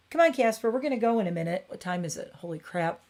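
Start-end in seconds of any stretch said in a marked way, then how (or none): 0.1-1.6 raised, high call to the cat. Real, not acted. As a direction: call him over brightly. Calling the cat.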